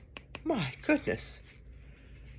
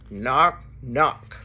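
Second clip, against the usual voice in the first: two separate knocks, each word alone; knocking on a door; 3 semitones lower than usual. Acted. Reader imitating a hand on a door, separated knocks. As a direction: knock with your voice. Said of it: "He can sound like a hand on a door".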